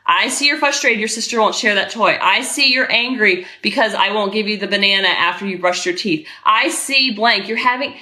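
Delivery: even, measured acknowledgement; steady and detached, a little low; composed parent defusing a child; calm validating parent. Shown as a demonstration. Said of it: "you're talking just like this".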